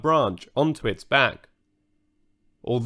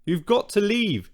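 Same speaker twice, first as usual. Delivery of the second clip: urging; 8 semitones higher than usual. A narrator's reading. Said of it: "she urged".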